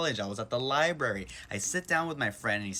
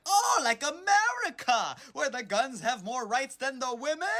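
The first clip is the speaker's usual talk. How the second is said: kinda yelling; 12 semitones higher, slower than usual. Retold or imitated. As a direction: stand on the chair and shriek it. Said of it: "I'm kinda yelling".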